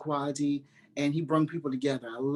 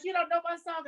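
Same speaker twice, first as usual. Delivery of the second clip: mock surprised Donnie; 13 semitones higher than usual.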